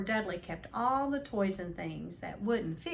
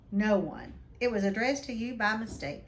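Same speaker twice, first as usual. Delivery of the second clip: curt; 2 semitones higher, 5 dB louder than usual. Acted. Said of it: "said Uncle Vernon shortly".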